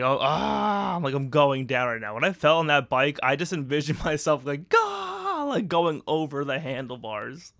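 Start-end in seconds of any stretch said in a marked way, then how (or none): 0.0-2.1 mock panic. Acting out a fall on ice. 4.7-5.5 startled yelp. Retold or imitated. Envisioning going over the handlebars.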